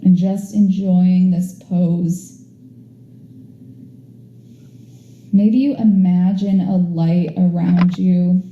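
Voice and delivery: soothing yoga relaxation cue; guided relaxation. Acted. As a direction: ease them into rest, unhurried. Leads a Shavasana relaxation.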